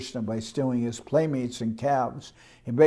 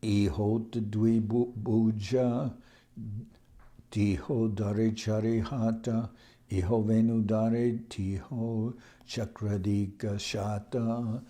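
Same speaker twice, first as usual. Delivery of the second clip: verse recitation. Acted. Chants Bengali verse before translating.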